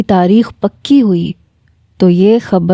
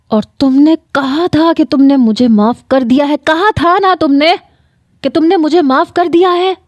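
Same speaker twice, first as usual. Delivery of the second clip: desperate pleading; 7 semitones higher than usual. Acted. Desperate confrontation, rising pitch.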